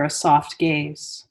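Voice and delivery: unhurried meditation guide with long pauses between phrases; guided meditation. Real, not acted. Teacher guiding listeners into Yoga Nidra, guided meditation voice. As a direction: lead them into stillness, phrase by phrase, leaving space.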